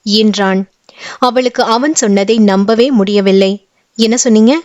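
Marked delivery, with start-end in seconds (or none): 4.0-4.5 surprised. Acted. She can't believe his proposal, mild astonished question. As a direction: ask it in disbelief, understated. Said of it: "வியப்பாய் கேட்டவளே".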